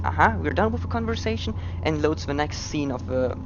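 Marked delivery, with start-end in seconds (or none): 0.0-1.5 high, quick mock game voice. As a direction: voice the game as a smug character. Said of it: "the game thinks".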